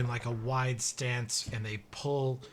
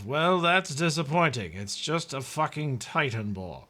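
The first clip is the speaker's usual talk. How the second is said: disappointed NPC; 3 semitones higher, 4 dB louder than usual. Acted. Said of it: "And he says".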